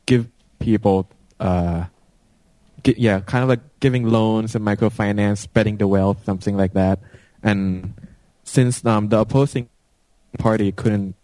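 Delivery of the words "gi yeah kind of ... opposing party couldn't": choppy, cutting-out line; broken-up call audio; radio breaking up. Real, not acted. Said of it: "you're breaking up pretty badly".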